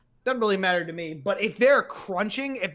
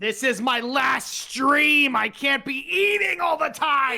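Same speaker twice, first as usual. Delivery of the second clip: mock outrage; 5 semitones higher, 3 dB louder, slower than usual. Mock rant about eating.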